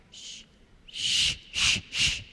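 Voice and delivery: hushed shushing. Retold or imitated. Daughter shushing her father at the table, hushed. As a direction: hush him quickly and softly.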